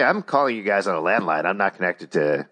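phone line audio; over a landline phone. Real, not acted. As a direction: sound like a landline call. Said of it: "we're chatting with each other over the phone".

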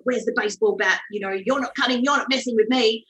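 retold protective challenge, mildly forceful; protective mother. Expectant mother eyeing a stranger in her house, protective. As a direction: stand your ground like a wary expectant mother. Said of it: "this protective, nesting mother".

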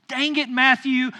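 mock-angry, stretched-out complaint; retold exasperation. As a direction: re-enact being thwarted by an old schoolmate. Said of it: "I'm so mad right now".

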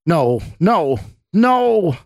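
high, loud cries building to a scream. A narrator's reading. Scott falls back from the women, screaming. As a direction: scream in mounting terror. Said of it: "Scott continued screaming".

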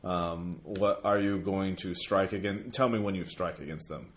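low, measured, ominous; low undead lord voice. Acted. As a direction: speak like an ancient soul-eater. GM voices the soul devourer.

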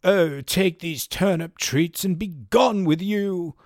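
a hint of an old Irish housewife sending beggars away; mock Irish reply. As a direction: shoo them off in a playful Irish lilt. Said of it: "And the reply would be".

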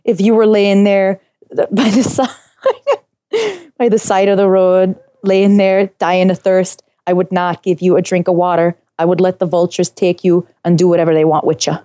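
lightly done imitation of her accent; Sue Hawk's accent. Castaway reciting Snakes and Rats speech on request, Sue Hawk's accent. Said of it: "do it in her accent".

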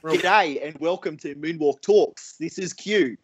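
slightly hammed-up Aussie accent; exaggerated Aussie podcast greeting; overly Aussie accent. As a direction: open the show in a broad Australian accent. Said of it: "that's such an overly Aussie accent".

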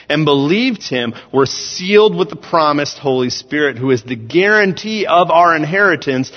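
emphatic, projected sermon delivery; preaching. Real, not acted. Preacher telling the church God lives within them, preaching. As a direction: preach it in measured, weighted phrases. Reads and expounds scripture.

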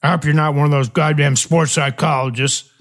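lightly voiced mumbling team owner; mumbling boss. Team owner grumbles toward his visitor, a mild mock mumble. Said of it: "He just started mumbling toward me".

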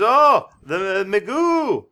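slow, loud, high drawn-out cry; a possessed boy crying out slowly, loudly and high; startled cry. Retold or imitated. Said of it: "He says".

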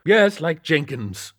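put-on high, loud, scolding old boss; gruff captain. A narrator's reading. Captain scolding Lakely about Hellsport beat, loud and high. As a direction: bark at the rookie. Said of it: "he agreed".

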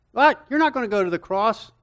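sharp high "What?", then fast and indignant; shocked protest. Acted. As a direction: burst out in disbelief at the teacher. Peter protesting to Jesus.

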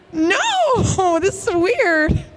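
high, drawn-out tearful protest; mock crying. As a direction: protest slowly as if still sobbing. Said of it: "crying like that".

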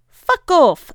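high, loud snarl of defiance; fierce curse. Acted. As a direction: spit it at the manager. Pappas tells manager off.

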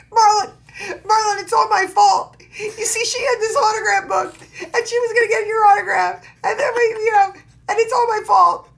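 very high, loud mock wailing; imitated crying. Marty confesses to Marlon over the autograph book, hammed-up crying. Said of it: "he starts crying, and he goes".

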